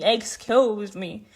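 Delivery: very slow, mock Czech accent. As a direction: mimic her Czech accent, dragging the words out. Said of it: "fucking mocks me saying".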